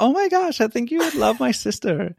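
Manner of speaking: put-on over-the-top American accent, squealing at the start; Brittany's American accent. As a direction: ham up the sister's excited American gush. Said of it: "that's my Brittany accent".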